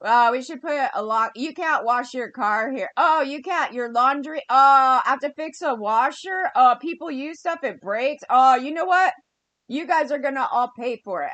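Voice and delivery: mild whiny imitation of the landlord, rising on each "Oh"; whiny landlord mockery. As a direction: lightly mimic a petty, complaining landlord. Mocking the landlord's complaints.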